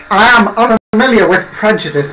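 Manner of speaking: earnest confrontation breaking into laughter; indignant stiff stranger. Acted. Tabitha challenging the barman's prejudice, half laughing. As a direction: press him on it while barely holding a laugh.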